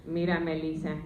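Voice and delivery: put-on low, soft old Spanish grandma voice; grandma impression. Comedian imitating her grandma cooing at her in Spanish, low and soft. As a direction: croon at the granddaughter like an old abuela. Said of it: "She's like".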